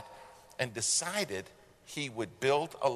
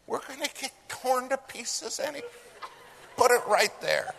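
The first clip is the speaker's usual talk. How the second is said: urgent order; 13 semitones higher, 3 dB louder than usual. Retold or imitated. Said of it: "I said".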